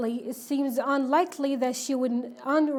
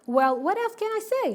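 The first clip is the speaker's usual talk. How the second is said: shouting; 8 semitones higher, faster than usual. A narrator's reading. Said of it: "Ron shouted".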